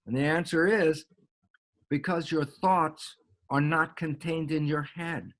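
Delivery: ordinary talk, nothing marked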